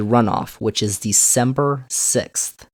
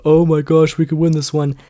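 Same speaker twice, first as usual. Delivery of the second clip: excited; 6 semitones higher, 6 dB louder than usual. Retold or imitated. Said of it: "Republicans thought".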